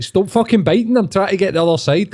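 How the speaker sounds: high-pitched mock exasperation; mock exasperated tweeter. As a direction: squeak it out like a fed-up wind-up merchant. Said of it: "and he's like".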